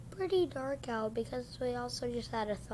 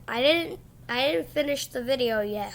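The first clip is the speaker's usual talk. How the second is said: louder, alarmed catch; sudden realisation; 4 dB louder than usual. Real, not acted. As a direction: stop short, startled. Realises video not finished.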